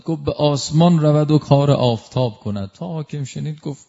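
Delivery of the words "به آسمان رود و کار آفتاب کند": louder call of «به آسمان رود و کار آفتاب کند»; loud call across the courtyard; calling out from afar. Retold or imitated. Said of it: "از اونجا داد زد".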